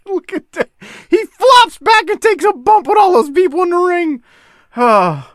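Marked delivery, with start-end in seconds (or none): 0.1-4.2 high, loud laughing delivery; giggling through the whole description. Real, not acted. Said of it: "I just had to laugh the way he's flopping around".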